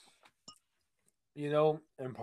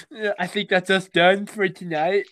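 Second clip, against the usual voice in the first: clock checker; 5 semitones higher, 6 dB louder than usual. Acted. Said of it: "be the clock checkers and be like".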